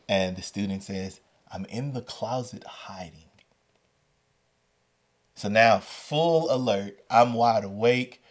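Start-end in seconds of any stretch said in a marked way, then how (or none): 1.5-3.3 imitating a hiding student's whisper. Student hiding in closet tells teacher, hushed whisper. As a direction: drop to a soft, secretive whisper. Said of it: "Why are you whispering".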